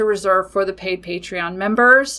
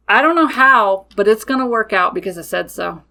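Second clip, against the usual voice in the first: firm declaration; 4 dB louder than usual. Retold or imitated. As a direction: state it as settled fact, no room for doubt. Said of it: "I state it just like that".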